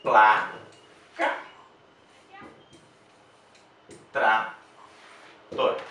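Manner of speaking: careful classroom syllable split; syllable demo. Shown as a demonstration. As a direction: say Placa and trator slowly, syllable by syllable. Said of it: "separar as sílabas".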